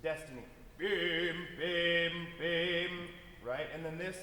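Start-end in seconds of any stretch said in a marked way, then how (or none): 0.8-2.9 three hard punched bims like fate knocking; loud knocks. Shown as a demonstration. Conductor demonstrating fate knocking, loud punched syllables. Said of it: "these kind of knocks at the door".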